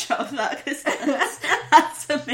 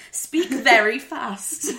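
slow reading; much slower than usual. Real, not acted. Slowly reading out the tip.

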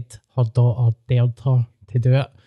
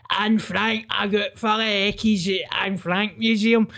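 higher mock rambling voice of a man on a bus; imitating mentally ill performer; 8 semitones higher than usual. Comedian mocks a Fringe act as a bus ranter, higher mock voice. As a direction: play an unhinged bus ranter, pitched up. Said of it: "just being like".

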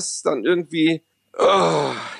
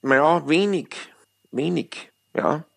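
Polt sketch voice. Retold or imitated. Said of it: "dieses Gerhard Polt-Stück".

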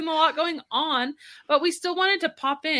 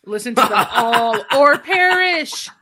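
spooky ride narrator; 5 dB louder than usual. Pretend. Spooky outro voice.

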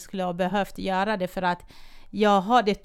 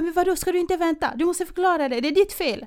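higher-pitched, rapid accusing outburst; retold indignant confrontation; 8 semitones higher, 4 dB louder than usual. Colleague confronts the driver who stopped, indignant. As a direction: challenge them heatedly, quick and raised.

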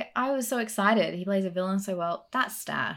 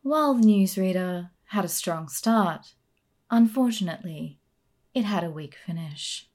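a hint of a formal news anchor; newsreader voice; 5 dB louder than usual. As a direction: read it like the evening news. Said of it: "in your best newsreader voice".

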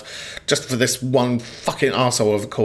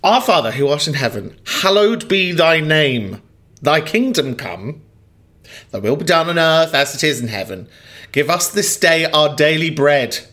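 prayer recital. Real, not acted. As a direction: recite it the way it was drilled into you. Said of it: "reciting the Lord's Prayer".

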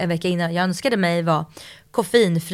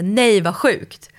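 amazed disbelief; 4 dB louder, much slower than usual. Retold or imitated. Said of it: "inte nej som jag inte vill, utan så".

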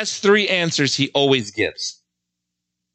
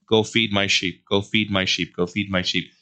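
fading command; 5 semitones lower than usual. Acted. Jesus gently tells Peter to feed his sheep, fading.

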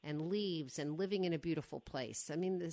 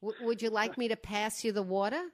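put-on playful thick Brooklyn accent, raised voice; 3 semitones higher, 4 dB louder than usual. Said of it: "You've lost about fifty percent of your Brooklyn accent".

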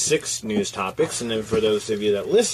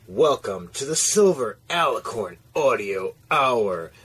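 ringmaster. Acted. Show opening announcement.

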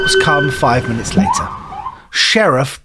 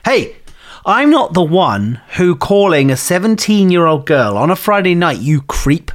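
angry; 4 semitones higher than usual. Acted. Victoria angry at caller.

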